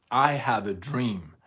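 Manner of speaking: rising oration. Retold or imitated. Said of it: "picking up speed".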